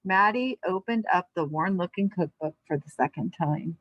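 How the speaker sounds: calm read-aloud storybook voice; story narration. A narrator's reading. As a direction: read it to a class of kids, unhurried. Reads picture book aloud.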